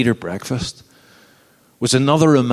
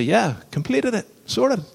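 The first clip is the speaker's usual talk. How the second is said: mock smug; 11 semitones higher, 3 dB quieter than usual. Mock smug boast to God.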